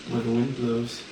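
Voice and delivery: measured prayer line for others to repeat; captain leading the recruits in a prayer. Acted. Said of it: "repeat this prayer after me".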